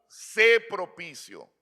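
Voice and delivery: slow, mild cry that sinks away. Retold or imitated. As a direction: imitate a slow cry for mercy, fading on the last words. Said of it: "sino que clamó".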